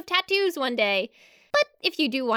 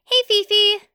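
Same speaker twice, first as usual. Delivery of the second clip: reading brother's letter; 4 semitones higher, 6 dB louder, slower than usual. Retold or imitated. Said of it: "Lenril writes".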